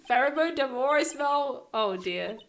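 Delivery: put-on loud, fast, laughing old lady rant; cackling old busybody. Old guard scolding Phoenix, loud and cackling. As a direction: screech it at the lawyer. Oldbag reads Edgeworth's letter.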